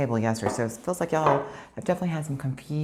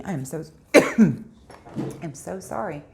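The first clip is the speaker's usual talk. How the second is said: choked up; much slower than usual. Real, not acted. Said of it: "Got a little choked up".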